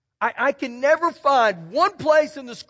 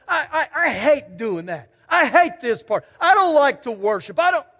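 petulant complaint. Pretend. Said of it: "you stomp your feet and you say".

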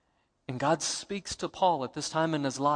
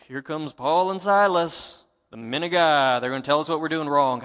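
mocking; 5 dB louder than usual. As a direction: drag it out to ridicule them. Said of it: "I believe that she was mocking them".

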